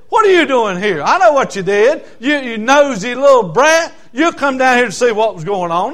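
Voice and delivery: mock scolding, pushed out forcefully; scolding older brother. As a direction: tell off a pesky little brother. Older brother scolds young David.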